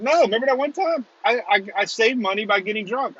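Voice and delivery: mock protest. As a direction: argue back in a high, mock-defensive voice. Acted reply to a critic.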